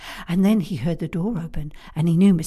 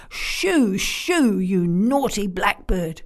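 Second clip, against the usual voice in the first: shooing the bird; 4 dB louder, slower than usual. Acted. Missus Brown chasing the blackbird.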